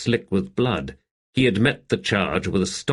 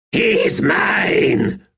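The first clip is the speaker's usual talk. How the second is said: much higher, louder snarling claim; 12 semitones higher, 4 dB louder than usual. A narrator's reading. Rulad claiming the swordsman for himself, a loud snarl. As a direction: snarl it like a beast claiming prey. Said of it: "Rulad said in a snarl".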